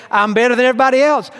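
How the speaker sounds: high and mighty. Retold or imitated. Preacher voicing a proud man, quick smug boast. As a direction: brag it fast like you're above everyone. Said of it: "The other part is high and mighty".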